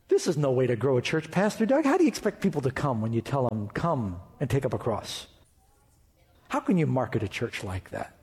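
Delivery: low, doubting critic of the pastor; imagined critic. Retold or imitated. Critic scoffing at Pastor Doug's cross message, low.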